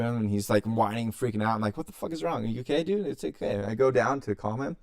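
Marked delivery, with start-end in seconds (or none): 1.8-3.6 retold worried soothing. Retold worried check on hurt dog.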